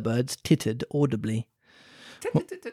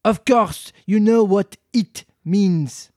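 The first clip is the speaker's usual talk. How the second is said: slow, louder, irritated mouse; cross mouse; 4 semitones higher, 5 dB louder, much slower than usual. Acted. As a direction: snap it out slowly and crossly. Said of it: "the mouse replied rather crossly".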